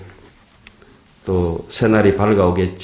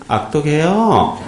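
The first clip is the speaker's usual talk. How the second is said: slow, higher, laughing through it; mock harsh scold; 6 semitones higher, slower than usual. Shown as a demonstration. Monk mock-scolding the congregation, laughing. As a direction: drag it out as a joking rebuke. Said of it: "이렇게".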